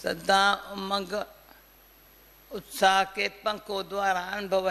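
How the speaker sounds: सदा उमंग drawn out slowly; slow repeat. Shown as a demonstration. Repeating the blessing to the class, slowly. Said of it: "repeats the blessing slower".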